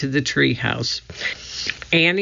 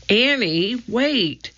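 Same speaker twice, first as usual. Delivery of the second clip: higher-pitched call at normal volume; 8 semitones higher, slower than usual. A narrator's reading. Jack to his sister running into woods, calling out. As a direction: call after someone, pitch lifted. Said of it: "Jack called".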